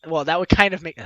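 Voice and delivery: slightly slurred speech; words running together; slurring words. Real, not acted. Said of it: "I'm slurring on my words".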